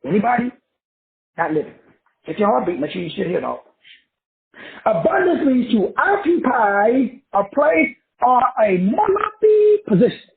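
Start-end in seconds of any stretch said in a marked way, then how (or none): 4.8-10.3 impassioned preaching. Real, not acted. Preaching the meaning of abundance.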